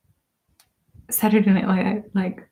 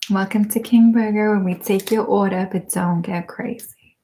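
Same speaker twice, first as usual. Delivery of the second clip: Bon Qui Qui impression. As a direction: play the cashier with attitude, barely changed. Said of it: "I could play that character so well".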